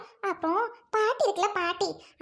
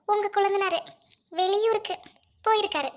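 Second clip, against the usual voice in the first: mocking echo. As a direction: echo her words back mockingly. Mocking echo of her words.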